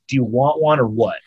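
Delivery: curt retold bartender impatience; irritated bartender. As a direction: impatiently demand an answer, mock irritation. Just irritated to the max.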